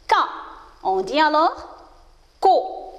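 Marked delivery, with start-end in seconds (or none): 0.1-0.1 "K" said with a hard k sound. Shown as a demonstration. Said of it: "va être prononcé". 2.4-2.9 "co" with a hard k; hard C sound. Shown as a demonstration. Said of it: "Il se prononce".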